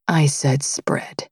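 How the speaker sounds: slow, low, stern repeat of the order; low stern command. Acted.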